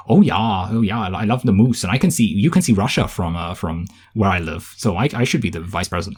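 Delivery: lightly mocked Minnesotan accent; Sarah Palin. Showing whom this accent recalls, mock Minnesotan-style politician impression. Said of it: "like, Sarah Palin being like".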